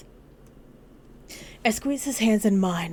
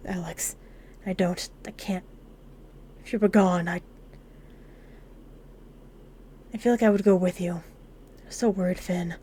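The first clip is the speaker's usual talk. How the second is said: tearful. Acted. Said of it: "I can't hold my tears back anymore".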